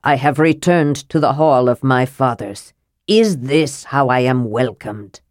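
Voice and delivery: a light voicing of a cold ghost prince; stern, cold prince. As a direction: demand respect from the Thanes. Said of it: "his voice was stern and cold and not Flint's own".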